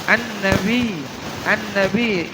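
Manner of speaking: An-nabi with the n held double; doubled n. Shown as a demonstration. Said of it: "ya-nya ada tasdid". (nun ditekan pada "An-nabi")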